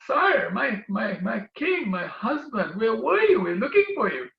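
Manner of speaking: high, sweet voice of a wife calling her husband; a woman anxiously calling out, my king, my husband; pleading wife. Acted. Wife greets Narad from lake.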